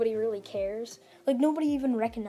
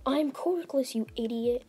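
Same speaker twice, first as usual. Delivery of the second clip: retold yell; 3 semitones higher than usual. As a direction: imitate an exasperated yell without full volume. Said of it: "Deku yells out".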